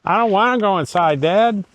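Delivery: high, whiny dog voice; voicing the dog. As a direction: speak as the stubborn dog. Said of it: "It's like".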